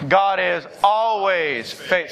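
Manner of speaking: "always" stretched out slowly for the congregation; stress on ALWAYS. Shown as a demonstration. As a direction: lead the chant, drawing "always" out long. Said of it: "you gotta emphasize the always".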